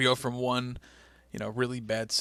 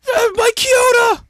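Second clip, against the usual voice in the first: high, loud hammed-up yell of a name; shouting; 16 dB louder, slower than usual. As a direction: bellow the referee's name like a heel wrestler. Wrestler calling out the referee.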